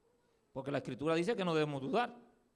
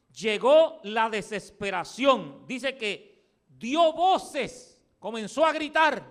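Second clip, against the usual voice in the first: building intensity; 4 semitones higher, 5 dB louder, much slower than usual. Acted. Narra la desesperación.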